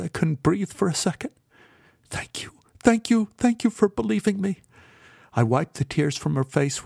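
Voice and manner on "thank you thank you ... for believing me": grateful. A narrator's reading. Beth grateful after being believed.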